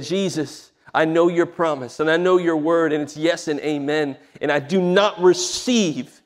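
retold plea building to firm refusal; emphatic re-enacted prayer of defiance; pleading prayer. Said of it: "I began to plead and said".

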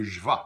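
je vais with vais as "va"; model phrase. Shown as a demonstration. Teacher models je vais for learners. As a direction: say je vais, dropping the s. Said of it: "the way you say it with I, euh, is euh".

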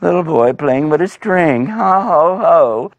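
high, gloating giant with ho-ho laughs; mock the little boy, laughing; amused, sneering taunt rising into laughter. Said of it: "He's going".

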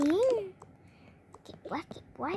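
slow, soft whisper. Acted. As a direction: breathe it out slowly, moved. Touched mother whispers. (กระซิบช้าๆ ซึ้งใจ)

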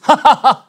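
loud, high burst of laughter; demonstrated laugh. Shown as a demonstration. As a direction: show off a big put-on laugh. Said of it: "Laugh is". (크게 터뜨리는 웃음 시범)

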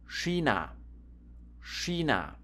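"China" said as SHEE-nah; careful German "China", sh and long ee; ch as sch. Shown as a demonstration. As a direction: show "China" starting with a sh sound. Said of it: "C H can be pronounced like S C H".

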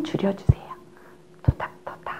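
soft whisper. Shown as a demonstration. Teacher whispers so the baby stays asleep. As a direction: keep it hushed. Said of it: "near sleeping baby".

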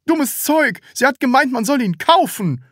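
high, loud angry scolding. A narrator's reading. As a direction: snap and scold. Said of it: "schimpfte der Verkäufer".

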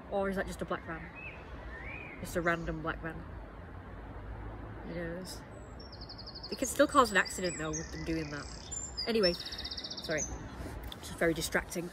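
muffled through a face mask; talking behind a welding mask. Real, not acted. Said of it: "feel sick with this mask on now".

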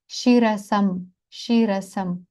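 шірасам slowly with long first І; long stressed vowel. Shown as a demonstration. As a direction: stretch ШІ in шірасам. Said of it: "всі їх ми виділяємо наголосом".

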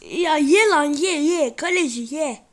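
loud, slow, drawn-out urging; will the ball in, loudly and slowly; urging shout. Real, not acted. Gamer shouting at the goalkeeper to let it in, loud slow urging.

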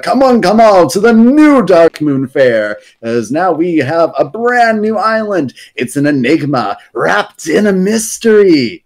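mildly hammed-up showman announcing; lightly voiced barker calling the crowd in; a hint of a fairground announcer; carnival barker. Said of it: "an announcement by Silas Darkmoon".

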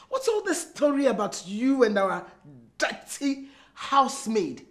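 controlled questioning, slowing at the end; measured accusation. Acted. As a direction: question him with restraint, dwelling on the insult. Wife questions husband, measured first take.

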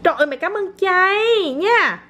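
overdone, almost tearful gratitude; gushing thanks. Pretend. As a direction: thank a toddler with theatrical delight. Exaggerated thanks to child.

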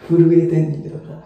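shivering laugh; trembling voice from cold; in ice cold water. Real, not acted. (震えながら笑って話す)

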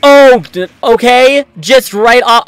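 loud, high startled protest; indignant shock. Real, not acted. Gamer knocked right off, yelping in indignant shock.

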